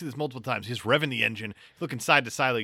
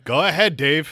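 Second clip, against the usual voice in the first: loud, high mocking impression; mock manager voice; 4 semitones higher, 7 dB louder, slower than usual. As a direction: mimic a weak manager urging him on. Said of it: "pathetic of Brian going".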